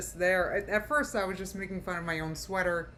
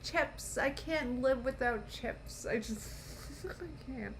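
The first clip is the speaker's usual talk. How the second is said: slow, higher, sing-song mockery of her whining; mocking voice; 3 semitones higher, slower than usual. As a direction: drawl it out like a pouting child. Mocking the woman's love of chips.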